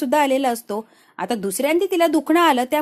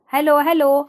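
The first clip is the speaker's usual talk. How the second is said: louder calling hello on a bad line; calling into phone; 3 semitones higher, 6 dB louder than usual. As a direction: shout hello into a dead phone. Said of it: "hello, hello करतो".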